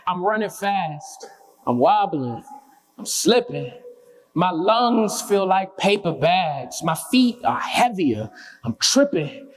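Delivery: halting spoken-word lines with gaps between phrases; spoken-word poem. Acted. Runner narrates chasing someone down the street, halting spoken-word delivery. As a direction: recite a tiring chase in short, separated bursts.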